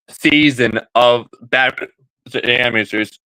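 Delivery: holding back hiccups mid-sentence; talking through hiccups; suppressing hiccups. Real, not acted. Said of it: "Sorry, I have the hiccups".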